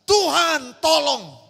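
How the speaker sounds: slow, drawn-out cry for help; a frightened dreamer's slow plea; desperate plea. Retold or imitated. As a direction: beg God slowly for rescue. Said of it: "saya hanya berkata".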